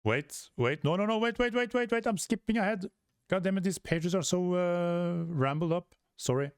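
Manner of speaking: high flustered stammering; a panicky character stopping everyone; hammed-up high panic, then a sheepish sorry. Character panics, skipping ahead.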